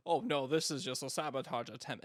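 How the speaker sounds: lightly voiced fan brushing it off; a hint of a smug fan waving it away; dismissive fan. Mocking fans' early excuses.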